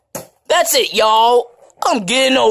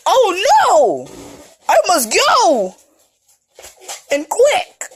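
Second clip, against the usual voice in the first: mock panic; 11 semitones higher, 3 dB louder, slower than usual. Character flees balloons in panic.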